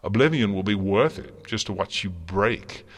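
high, loud villainous relish; mad gleeful joy. A narrator's reading. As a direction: lose control into gleeful threats. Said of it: "filled with a mad, gleeful joy".

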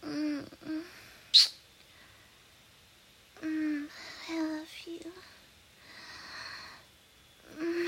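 pillow talk. Acted. Soft afterglow, saying good night.

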